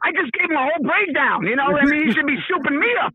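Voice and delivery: rushed comic grievance, stumbling over the words; touched a nerve. Real, not acted. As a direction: grumble like someone upstaged. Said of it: "I touched a nerve".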